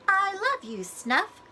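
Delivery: put-on a light, high little-girl reading voice; child reading aloud. A narrator's reading. Molly reading her book to the children, lightly voiced. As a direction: read it like a small girl sounding out a book. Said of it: "Molly read".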